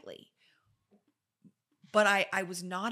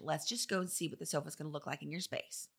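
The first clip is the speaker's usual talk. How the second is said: whispered; 3 semitones lower, 5 dB quieter than usual. Retold or imitated. Quoted colleague.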